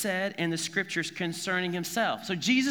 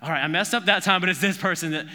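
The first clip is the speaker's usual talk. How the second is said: mock excited guessing; 5 dB louder, faster than usual. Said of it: "I probably annoy my wife".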